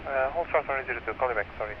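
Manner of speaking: radio-filtered air traffic call; crackly cockpit radio voice; over a pilot headset. Real, not acted. Tower radio exchange with pilot.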